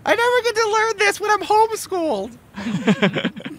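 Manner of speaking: put-on very high whiny kid; whiny child voice. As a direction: protest like a sheltered child. Child character protesting.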